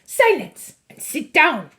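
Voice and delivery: high, loud commanding witch; witch shouting. A narrator's reading. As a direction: dismiss it imperiously.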